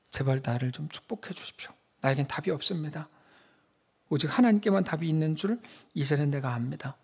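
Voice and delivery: quiet, desperate pleading to God; pleading confession. Pretend. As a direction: beg for a blessing, voice sinking. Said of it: "라고 말하죠".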